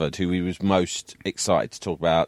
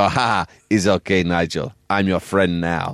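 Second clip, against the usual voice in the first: laughing reassurance. Retold or imitated. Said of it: "So I just laugh and go".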